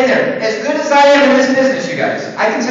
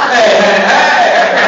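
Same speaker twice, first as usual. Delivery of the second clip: calling out; 6 dB louder than usual. Real, not acted. Calming the laughing crowd.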